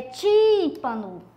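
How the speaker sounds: "tímpano" slowly, first "tím" held long; stress on TÍM. Shown as a demonstration. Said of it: "do mesmo jeito". ("tímpano" devagar, alongando o "tím")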